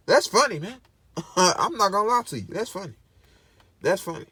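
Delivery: laughing through the words; amused, chuckling it out; real amused laugh. Real, not acted. Laughing at the study.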